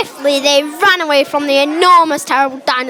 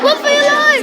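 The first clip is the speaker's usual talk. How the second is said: acted fright; 10 semitones higher than usual. Acted escape from dinosaur.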